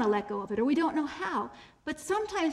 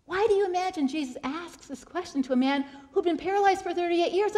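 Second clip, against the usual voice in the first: normal talking voice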